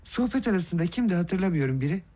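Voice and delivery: ordinary delivery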